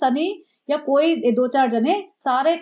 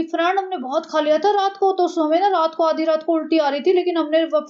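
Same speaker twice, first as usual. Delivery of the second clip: mock vlogger; 4 semitones higher than usual. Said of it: "इसने जो वो करी थी".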